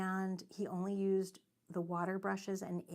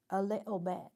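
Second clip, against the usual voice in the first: a louder, lightly tried British accent; hammed-up British "a little bit"; 5 dB louder than usual. Shown as a demonstration. Streamer keeps trying the British accent, loudly. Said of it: "cringing in British".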